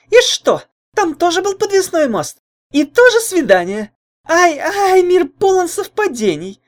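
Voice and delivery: put-on high, loud, taunting girl; mocking. A narrator's reading. Jealous girlfriend mocks his story and the rival, high and taunting. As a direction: ridicule every word, sing-song scorn. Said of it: "продолжала издеваться Лайда".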